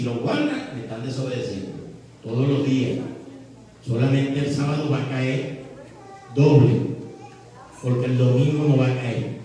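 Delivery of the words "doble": doble said alone, much louder; stress on doble. Acted. God tells the people about Saturday, punching doble. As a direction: hit doble hard. Emphatic command detail.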